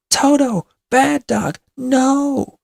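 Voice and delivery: high, loud scolding of a runaway dog; distressed calling. A narrator's reading. Dorothy calls after her fleeing dog, distressed. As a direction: call out sharply, close to tears. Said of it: "says Dorothy, and she feels tears".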